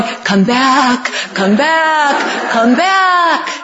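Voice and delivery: growing plea, last one loudest; calling back. Pretend.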